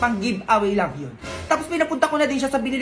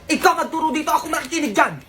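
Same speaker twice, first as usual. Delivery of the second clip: higher-pitched teacher's telling-off; acted scolding; 5 semitones higher than usual. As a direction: scold a pupil in a raised pitch. Galit na gurong sumisita sa estudyante. (pagalit na paninita ng guro)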